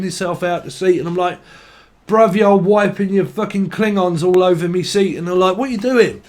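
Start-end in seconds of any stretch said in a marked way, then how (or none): 2.1-5.2 mock outraged yell. Yelling at mate in car. 5.6-6.2 mock outraged yell. Yelling at mate in car.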